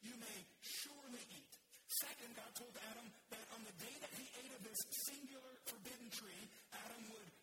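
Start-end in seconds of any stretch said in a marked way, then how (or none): 0.0-1.6 "surely" stressed and stretched; emphatic permission. Shown as a demonstration. God's word quoted to the church, emphasis on "surely". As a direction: lean firmly on "surely". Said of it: "pay attention to the emphasis".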